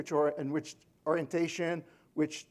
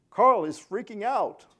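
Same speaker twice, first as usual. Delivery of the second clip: robot alert; 4 semitones higher, 5 dB louder, slower than usual. Retold or imitated. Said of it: "will say".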